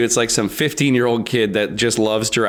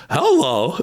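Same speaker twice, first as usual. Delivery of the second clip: Mad Hatter voice; 3 semitones higher than usual. Acted. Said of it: "it's like a Mad Hatter voice".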